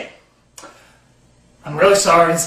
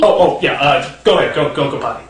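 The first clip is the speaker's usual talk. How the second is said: flustered parent; 5 semitones lower than usual. Acted. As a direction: catch on and wave the kid off. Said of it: "let your five-year-old write the screenplay".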